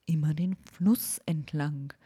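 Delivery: slow, whispery owl giving directions; the owl drawing the long route; slow breathy owl voice with a hoot. Acted.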